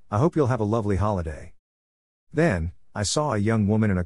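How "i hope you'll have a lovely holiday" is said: quick, bright and cheerful; chirpy farewell. Acted. Cleaning lady cheerfully wishing the traveller a good holiday, quick chirpy voice. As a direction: chirp it out as a sendoff. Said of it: "she chirped".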